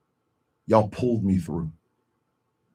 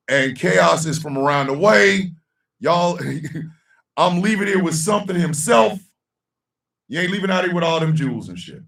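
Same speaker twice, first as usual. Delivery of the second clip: excited banter; 10 semitones higher, 5 dB louder than usual. Real, not acted.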